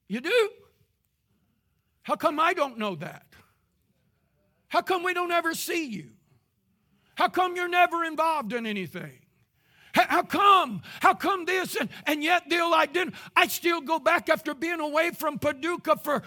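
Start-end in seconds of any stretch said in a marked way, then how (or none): 0.1-11.8 pressing him with disbelief; incredulous pastor. Retold or imitated. Pastor questions a member who never attends, incredulous.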